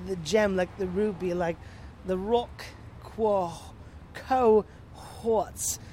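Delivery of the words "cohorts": "cohorts" split in two, co... hawts; rhymes with quartz. Pretend. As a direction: sound out "cohorts" slowly, ending like "quartz". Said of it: "like quartz".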